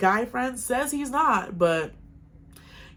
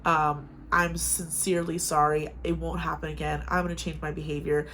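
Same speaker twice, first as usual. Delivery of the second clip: sincere apology; 3 semitones lower, 3 dB quieter than usual. Retold or imitated. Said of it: "he was like".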